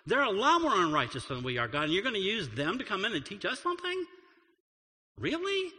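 indignant complaint to God; protesting prophet. Retold or imitated. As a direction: argue back at God in disbelief. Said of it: "He complained again".

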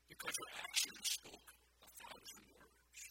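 slow, booming climax line; loud, slow emphasis. Real, not acted. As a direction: drive each word home slowly and loud.

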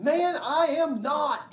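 high, loud and slow, dragged out; indignant denial. Acted. Peter to a bystander by the fire, slow loud denial. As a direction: bristle and stretch every word.

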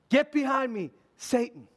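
acted stern order, punched at the start; intense rebuke. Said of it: "some intensity behind it".

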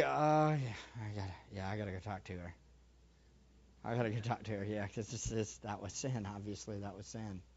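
quietly admitting it to yourself in bed; hushed private admission; quiet realization. Retold or imitated. Inner realisation continues.

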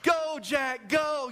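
mock frantic shout; screaming at the TV. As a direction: imitate a viewer urging the hero on. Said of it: "we're screaming at the T V".

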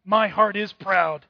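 loud, self-absorbed boast to oneself, easing off at the end; proud heart's voice, loud then fading; proud inner voice. Acted. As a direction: voice the proud heart talking to itself. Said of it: "Here's how it would read".

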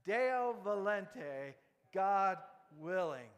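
Deo volente, said loud and slow as DAY-oh vo-LEN-teh; Latin phrase. Shown as a demonstration. Preacher teaching the congregation to say Deo volente. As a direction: pronounce Deo volente clearly for the crowd. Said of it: "Can we say it together".

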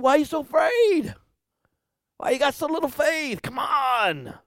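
a hint of Jesus teasing the disciples; gentle Jesus rebuke. Jesus chiding his scared disciples, lightly voiced. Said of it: "he just said".

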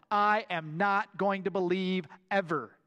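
mock-emphatic Thomas refusing. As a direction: plant your feet on every word. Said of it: "in the most emphatic way possible".

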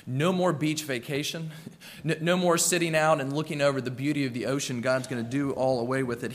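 a light whiny complaint, half laughing; playful mock lament with a laugh; mock disappointed listener. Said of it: "maybe you read this and you think".

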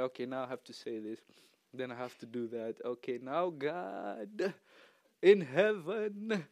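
hammed-up formulaic praying; mock stiff prayer. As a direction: parody a rigid, rehearsed prayer. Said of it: "I don't talk like that".

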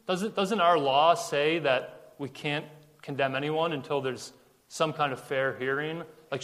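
hesitant, halting questions; timid. Retold or imitated. Nicodemus raising his hand before the Pharisees, timidly. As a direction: tentatively raise an objection. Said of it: "uh, timidly".

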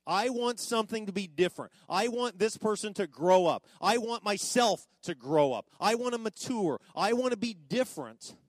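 loud wishful plea; voiced yearning plea. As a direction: cry out what you long for. Voicing a longing listener.

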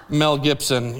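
low, offhand delivery of a name; deadpan fake name. Writing a fake name on attendance.

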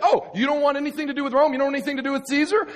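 fast, high sarcastic mimicry; mocking. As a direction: rattle it off in mock outrage. Mocking the questioners' stance.

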